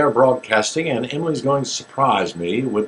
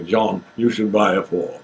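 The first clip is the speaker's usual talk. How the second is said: 1 Richard Burton voice; 3 semitones lower than usual. Retold or imitated. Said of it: "I have to use Richard talking to me".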